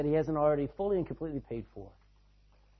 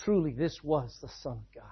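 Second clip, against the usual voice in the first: awed centurion; 3 semitones lower, 4 dB quieter than usual. Retold or imitated.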